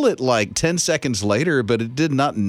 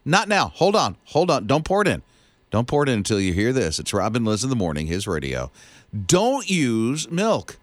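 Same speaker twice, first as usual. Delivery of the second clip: promo read. Acted. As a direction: tease the listeners like a radio promo. Host doing a promo tease.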